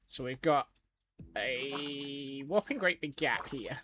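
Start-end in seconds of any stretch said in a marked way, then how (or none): 1.4-3.8 slow emphasis. Real, not acted. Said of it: "Scotsman Fills in His Gaps".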